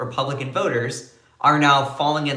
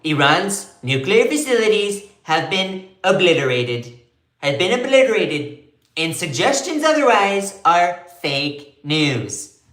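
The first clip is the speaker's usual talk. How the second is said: higher, louder boastful Trump read; 4 semitones higher, 4 dB louder than usual. Retold or imitated. Host voices the White House claim as Trump. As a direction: brag it like Trump. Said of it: "This is what it has said".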